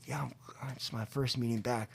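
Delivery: low, soft, halting reply; sheepish admission. Retold or imitated. Newcomer admits first meeting back to friend, sheepish. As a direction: admit it quietly with a false start.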